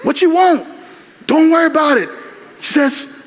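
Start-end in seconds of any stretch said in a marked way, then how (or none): 0.0-2.1 granddaughter asking. Retold or imitated. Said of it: "granddaughter comes and says".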